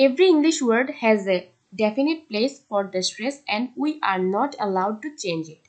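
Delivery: reads the English rule out word by word; measured classroom read-aloud; slow textbook reading. Acted. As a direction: dictate it slowly to the class.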